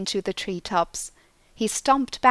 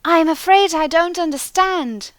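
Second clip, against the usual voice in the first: a hint of a puzzled clerk, higher and louder; lightly voiced clerk; 10 semitones higher, 9 dB louder than usual. A narrator's reading. Lost clerk replying to the voice, lightly voiced. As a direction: answer politely, lightly baffled. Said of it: "replied Scotty".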